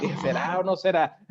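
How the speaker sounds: teasing question through a laugh; playful chuckling question. Real, not acted. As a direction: laugh it out while asking. Teasing about her mixed accent.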